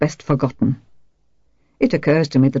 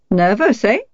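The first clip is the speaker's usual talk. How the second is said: malicious; 6 semitones higher than usual. A narrator's reading. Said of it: "she said maliciously".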